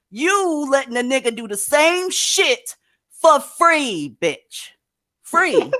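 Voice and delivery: scornful scolding. Real, not acted. Scolding women for free labor.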